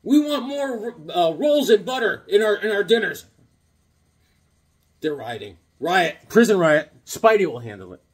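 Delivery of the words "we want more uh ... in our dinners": mock prisoner demand.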